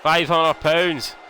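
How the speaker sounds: slow, drawn-out announcer call; ring announcer. Acted. Gamer announcing the Big Show's weight, slow announcer shout. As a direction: stretch each word like a ring announcer.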